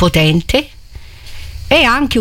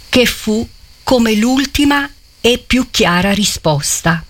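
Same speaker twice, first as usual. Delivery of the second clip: literary reading. A narrator's reading. Preacher reading Manzoni's scene aloud, solemn. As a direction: read the passage with gravity to the congregation.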